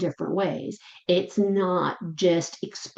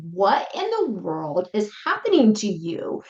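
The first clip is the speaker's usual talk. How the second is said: baffled sitter. Retold or imitated. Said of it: "And you're thinking".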